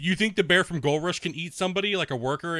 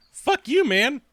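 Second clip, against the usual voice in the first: mock troll; 10 semitones higher, 6 dB louder, slower than usual. Mocking a chatter's insult.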